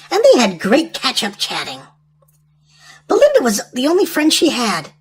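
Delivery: put-on reading a storybook to children; lively storyteller read aloud; story narration.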